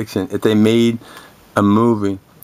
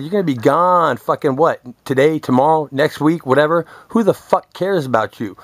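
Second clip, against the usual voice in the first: retold taunt; 4 semitones higher than usual. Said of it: "I said".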